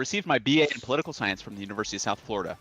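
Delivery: quick read of a bio, listed off fast; reading the professor's short bio aloud to a friend. Real, not acted. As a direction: rattle off the degrees. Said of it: "read it to you".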